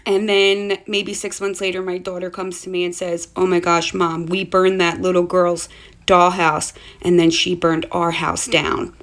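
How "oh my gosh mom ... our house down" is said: louder, slower urgent report; alarmed child. Retold or imitated. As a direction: blurt it out wide-eyed. Daughter reports the fire.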